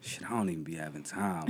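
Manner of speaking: whispering. Real, not acted. Aside about being busy.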